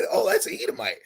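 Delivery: mock surprised squeak, way up high; a high, eager little yelp of recognition. To the police, a mock surprised high squeal.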